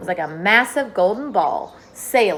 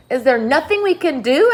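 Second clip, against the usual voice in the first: higher, louder pleading question; desperate plea; 8 semitones higher, 8 dB louder than usual. A narrator's reading. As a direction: appeal to James in despair. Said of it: "appealing to James".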